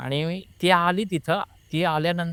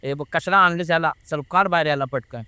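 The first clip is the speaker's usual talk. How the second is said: louder retold outburst at a brother-in-law; mock-angry order to get him out; imitated angry scolding; 3 dB louder than usual. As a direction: act out a possessed woman berating her in-law. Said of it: "मग ते शिव्या द्यायला लागलं दिराला".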